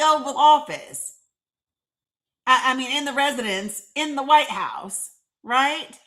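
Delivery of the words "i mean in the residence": ordinary talk, nothing marked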